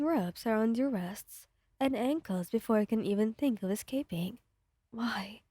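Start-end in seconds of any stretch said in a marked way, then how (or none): 4.9-5.4 quiet choked question. A narrator's reading. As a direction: force it out through tears. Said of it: "he managed to choke out".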